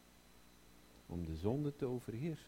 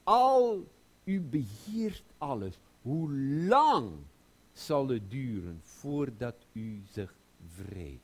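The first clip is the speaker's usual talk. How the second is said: pleading cry; 6 dB louder than usual. Acted. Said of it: "een woord gebruikt die zegt".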